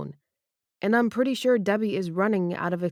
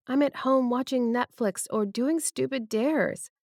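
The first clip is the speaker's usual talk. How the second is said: lightly raised female voice; Debbie's voice; 5 semitones higher than usual. Acted. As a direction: voice the woman, a bit higher. Debbie laments her life.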